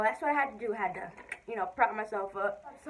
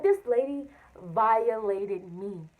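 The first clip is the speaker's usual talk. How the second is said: loud, high outraged rant; indignant; 5 semitones higher, 6 dB louder than usual. Real, not acted. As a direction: blast the injustice. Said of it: "I was mad".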